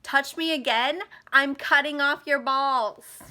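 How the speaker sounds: big boss defiance. Acted. Imagined confrontation with her abuser, big boss threat. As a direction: square up like the boss, drawing out the threat. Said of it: "I was gonna be like".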